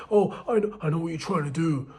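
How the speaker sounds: a lightly mocked accusing ranter; hammed-up, half-hearted callout of the girl; Myron Gaines. Guy accusing a girl of being a Jezebel, a light mock rant. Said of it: "Don't turn into Myron Gaines".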